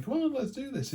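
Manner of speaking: high, bouncy pushy youngster; mock keen youngster urging you on; eager younger person. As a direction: chirp it like an eager puppy.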